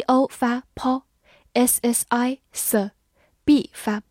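slow, letter-by-letter spelling. Shown as a demonstration. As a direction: sound out each letter slowly. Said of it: "spells and sounds out the word". (慢速拼读)

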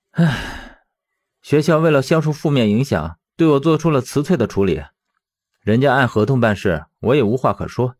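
heavy sigh, then resigned explanation; helpless resignation. Acted. Fired teacher explaining his dismissal to a friend, resigned. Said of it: "语气中满是无奈".

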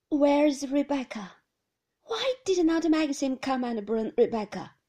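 put-on thin, querulous old lady's voice. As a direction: whine it like a fretful old lady. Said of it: "the thin, querulous voice".

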